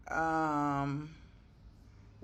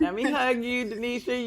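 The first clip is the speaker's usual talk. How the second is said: laughing; 4 semitones higher, 4 dB louder than usual. Real, not acted. Coach hugging proud client.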